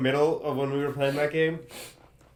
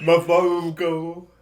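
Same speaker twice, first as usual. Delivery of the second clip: drawn out; 3 semitones higher, much slower than usual. Shown as a demonstration. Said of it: "nothing methodical".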